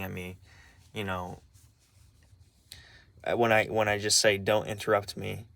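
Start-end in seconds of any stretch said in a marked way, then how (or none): 4.4-5.5 not yelled. Retold or imitated. Recounting own request to grandparents, not yelled. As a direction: say it softly, without yelling. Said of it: "not like I yell it".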